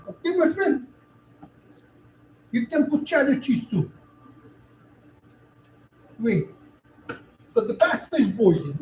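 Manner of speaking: fake Italian accent. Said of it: "he's trying to fake accent".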